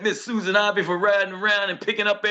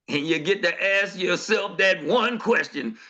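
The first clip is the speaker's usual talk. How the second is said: ordinary talk, nothing marked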